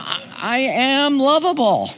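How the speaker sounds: hammed-up insistence on one's own charm; self-loving attitude. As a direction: play someone smugly sure they're adorable. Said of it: "we kind of have this attitude".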